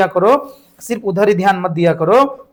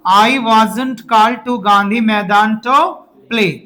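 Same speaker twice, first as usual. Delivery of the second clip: slow repeat; much slower than usual. Shown as a demonstration. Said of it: "फिर से बोलो".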